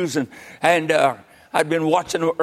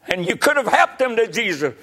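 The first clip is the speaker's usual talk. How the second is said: raised, reproving preacher's voice; convicting preaching; 5 semitones higher than usual. Real, not acted. Preacher reproving those who got saved and forgot, raised preaching voice. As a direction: press the charge on the congregation.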